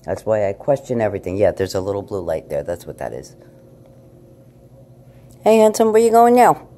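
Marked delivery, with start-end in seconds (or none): 5.4-6.7 high, loud sing-song pet talk; cooing at the cat. Real, not acted.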